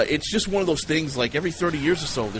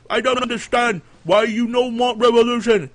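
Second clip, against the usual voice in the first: much higher, louder sheep voice; sheep leader; 11 semitones higher, 7 dB louder than usual. Pretend. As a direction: bleat the question like a puzzled sheep. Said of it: "he was like".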